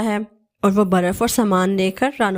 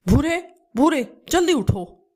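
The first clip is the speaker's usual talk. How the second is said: calling out; 6 semitones higher than usual. Acted. Kalu wakes his sleeping brother.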